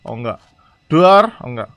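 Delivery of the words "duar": sudden playful "boom"; mock jump-scare bang. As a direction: burst out a pretend explosion noise. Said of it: "jump scare".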